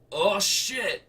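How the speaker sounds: high loud startled curse; startled husband. Acted. Husband sees the kangaroo squaring up, startled loud curse. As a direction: blurt it out as the kangaroo rises.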